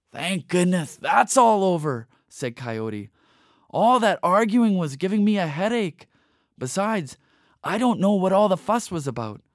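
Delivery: a hint of a weary, smug coyote; relieved Coyote. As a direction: Coyote to Raven by the pond, relieved. Coyote voiced after argument.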